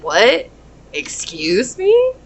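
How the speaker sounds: high, slow, offended "excuse me"; sassy disbelief. Retold or imitated. Reader voicing the client rebuffing a one-night stand, sassy. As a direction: act scandalized at the nerve of it. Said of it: "You said".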